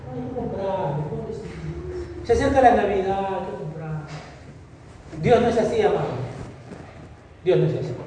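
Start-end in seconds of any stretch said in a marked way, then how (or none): 0.1-4.1 mocking indulgent parent. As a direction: sneer at the pushover parent. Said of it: "Padres necios". (imitación burlona de padre consentidor, voz suave)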